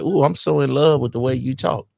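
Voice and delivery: lightly voiced swooning woman; a hint of smitten mimicry; imitating a smitten woman. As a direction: gush like an admirer. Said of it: "A woman just be like".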